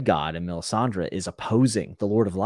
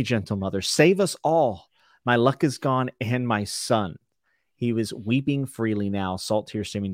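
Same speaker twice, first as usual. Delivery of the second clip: dramatic book reading with a lifted prayer; story reading. A narrator's reading. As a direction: read the passage aloud, acting the prayer lightly. Reads Davos chapter aloud.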